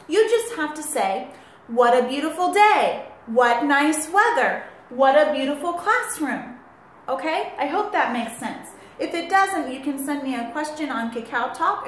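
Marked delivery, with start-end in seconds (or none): 1.7-6.6 mild excitement. Shown as a demonstration. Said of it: "in an excited voice".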